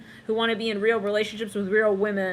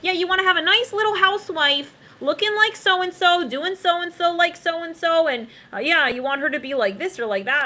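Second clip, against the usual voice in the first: mock pushy relative; imitating family; 7 semitones higher, 3 dB louder than usual. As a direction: lay out what a housewife should be. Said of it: "they would tell them".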